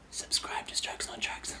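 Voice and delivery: slow whisper in his ear; hushed, slow whisper. Retold or imitated. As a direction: breathe it softly to the dying man. Leans over dying man.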